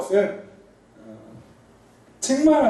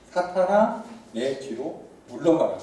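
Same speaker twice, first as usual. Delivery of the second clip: stern rebuke; 3 semitones lower, 4 dB quieter, slower than usual. Retold or imitated. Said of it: "베드로를 꾸짖어 이르시되".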